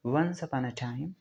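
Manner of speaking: slow dictation. Shown as a demonstration. Reads example sentence slowly.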